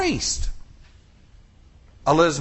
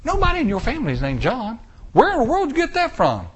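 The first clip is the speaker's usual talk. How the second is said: relatives shocked; 3 semitones higher, faster than usual. Acted. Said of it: "They're going".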